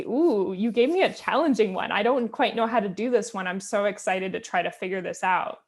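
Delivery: lightly acted excitement of a keen child; eager "ooh", mildly imitating a kid keen for challenge; excited child. Child greeting a difficult math problem, mildly excited. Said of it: "kind of get excited and say".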